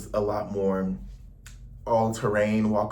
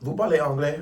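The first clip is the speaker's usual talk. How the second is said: "Vous parlez anglais?" asked higher and louder in careful French; French question; 5 semitones higher, 5 dB louder than usual. Retold or imitated. Tourist asks a local if they speak English, in careful French. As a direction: tourist asking a Parisian shopkeeper, slightly raised voice, careful French. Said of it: "And I'm like".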